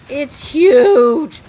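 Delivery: "It's huge!" shouted high and loud; amazed shout. Real, not acted. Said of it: "repeats louder".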